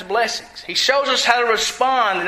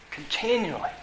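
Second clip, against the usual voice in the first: "continually" set apart after a pause, much softer; emphatic continually; 9 dB quieter than usual. Real, not acted. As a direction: drop to a hushed, weighted "continually". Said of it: "I put emphasis on the last word".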